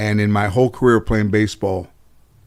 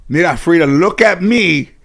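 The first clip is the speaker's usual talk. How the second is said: grandmother voice; 7 semitones higher, 4 dB louder than usual. Retold or imitated. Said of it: "My grandmother said".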